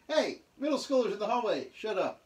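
put-on hallway yell at noisy kids; mock teacher shout down the hall. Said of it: "trying to reproduce a real experience".

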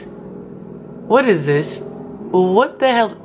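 drawn-out baffled what is this; slow, stunned and rising on the hell; slow disbelief. Real, not acted. Staring at her botched face, slow stunned disbelief. Horrified at her own makeup.

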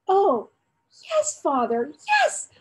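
put-on boy promising father chores for the pup; stammering with happiness. A narrator's reading. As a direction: tumble out the promises, overjoyed. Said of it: "stammering with happiness".

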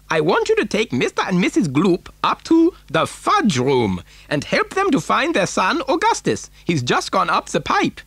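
high-pitched eccentric giving orders; Mister Wonka. A narrator's reading. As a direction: instruct a helper, voice swooping up. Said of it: "said Mister Wonka".

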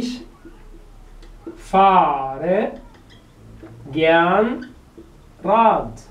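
very slow, a long gap after each word. Shown as a demonstration. Teacher asks how Radfahren is used, word by word. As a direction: stretch FAHRE and GERN, hanging before RAD. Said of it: "تستخدمها ازاي؟".

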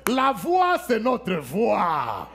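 rising, forceful preaching cry on la voix; preaching shout. Real, not acted. Preacher shouting to the congregation about prayer, fervent. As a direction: hammer home that it is your voice that prays.

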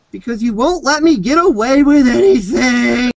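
mock whiny girlfriend. Girlfriend's complaint voiced.

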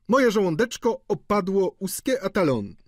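high-pitched comic whine of hunger; clowning complaint. A narrator's reading. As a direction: play up the hungry joke in a high voice. Student clowning about hunger.

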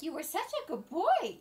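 doting dog praise. Real, not acted.

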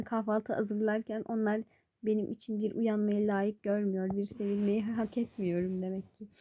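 soft, low, wounded martyr voice; mock self-pity. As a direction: quietly play the neglected one, hammed-up. (yapmacık, alçak sesle boynu bükük sitem)

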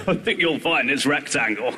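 slow correcting dad voice; dad correcting his child, prim and slow; pompous dad. Retold or imitated. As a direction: correct the child, slowly and primly. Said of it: "your dad goes".

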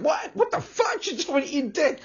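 stunned churchgoer, high and incredulous; shocked. Retold or imitated. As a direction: squeak out a startled "what the fuck". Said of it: "And they're like".

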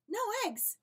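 high, loud disbelieving cry; shocked cry. A narrator's reading. Farmer Brown hearing the hens strike, crying out high and loud. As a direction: shriek the question in shock. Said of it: "cried Farmer Brown".

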